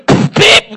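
loud, high-pitched imitated beep; explosive puff, then a shrill bleep; censor bleep. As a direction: curse replaced by a bleep. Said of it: "יש כזה פיפ".

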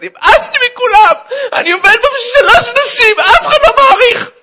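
high, loud exasperated secretary; hammed-up hysterical rant; fed-up screaming. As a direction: explode in overwrought self-pity. Secretary slams door, explodes.

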